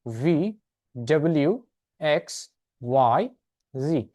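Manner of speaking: each letter said slowly and clearly as a model; teacher modelling the alphabet letter by letter; slow alphabet recital. Shown as a demonstration. Teacher recites the alphabet for the class, slow and clear. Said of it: "আরেকবার বলছি".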